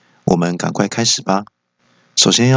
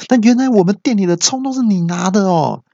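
boss yelling; 12 semitones higher than usual. Acted. Boss yells at the customer who took his scallions. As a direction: boss suddenly yells in disbelief. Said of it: "那老板听了就大叫说".

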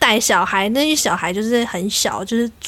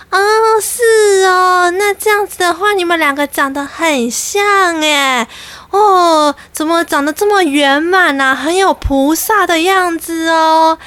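put-on higher, sugary gushing old auntie voice; gushing old lady; 5 semitones higher than usual. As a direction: flatter them like a nosy old woman. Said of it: "她就开始".

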